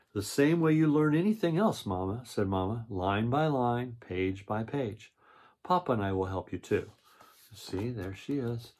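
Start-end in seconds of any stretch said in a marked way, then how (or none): 0.1-6.9 storybook read-aloud voice; reading to children. A narrator's reading. Reads the picture book aloud.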